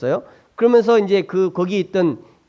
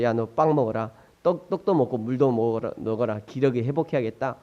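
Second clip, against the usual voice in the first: lower, softer angel voice, lightly acted; angel speaking; 9 semitones lower, 8 dB quieter than usual. Angel waking the worn-out Elijah, telling him to eat, low and soft.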